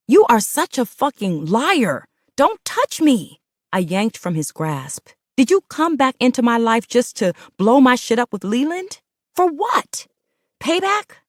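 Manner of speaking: high, loud, frantic shouting; hysterical shouting. Acted. Woman shouting at her lying partner as he grabs her. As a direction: shout and pull away from him.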